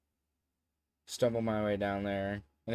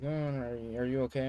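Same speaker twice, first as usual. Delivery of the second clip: imitated concerned girl; 3 semitones higher than usual. Concerned girl voiced in story.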